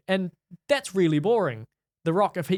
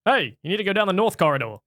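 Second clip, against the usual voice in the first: mildly raised, higher mock command; mock yell; 4 semitones higher, 3 dB louder than usual. Host parodying the actor to co-host, mock yelling. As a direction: imitate an over-intense movie order. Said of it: "yelling at somebody like".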